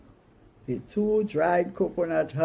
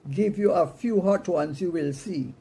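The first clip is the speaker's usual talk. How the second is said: mock screamed threat; 4 semitones higher, 4 dB louder than usual. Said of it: "Mama screamed".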